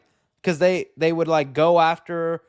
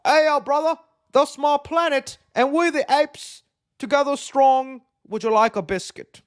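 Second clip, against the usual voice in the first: high, put-on mixed accent, louder; goofy ape accent tour, jumping from street slang to British; mock British ape accent; funny foreign ape accents; 9 semitones higher, 4 dB louder than usual. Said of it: "they're gonna have accents and they're gonna talk funny".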